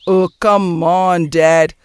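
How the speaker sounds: slow, stretched English objection; drawling protest. Acted. Son brushing off his father's reproach, drawling protest. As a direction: drag out the protest.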